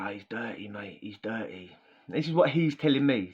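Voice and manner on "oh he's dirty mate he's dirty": moaning cellmate. Retold or imitated. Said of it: "He goes".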